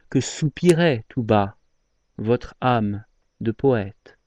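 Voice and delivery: measured poetry reading with pauses between lines; poem recitation. Acted. Presenter quoting a young poetess's poem, recited in measured phrases. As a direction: recite verse by verse, letting line endings linger.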